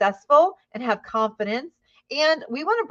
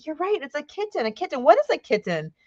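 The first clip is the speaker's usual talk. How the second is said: lightly acted teacher praising a young student; encouraging teacher; 5 semitones higher than usual. Shown as a demonstration. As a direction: gently affirm a child's answer. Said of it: "And I might say".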